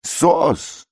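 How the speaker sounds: high, slow wailing cries; cry for help. A narrator's reading. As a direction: wail for rescue. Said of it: "опять же крик". (протяжные вопли)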